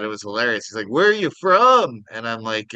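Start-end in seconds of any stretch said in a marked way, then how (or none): 0.9-2.0 put-on high, loud Minnesota accent; imitated Minnesotan, swooping up high; Minnesotan store clerk. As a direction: ask it like a chatty Minnesotan clerk. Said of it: "The guy at the liquor store talked like that".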